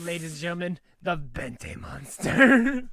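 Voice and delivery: slow, booming announcer. Pretend. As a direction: present it like an arena host. Hyping a monster.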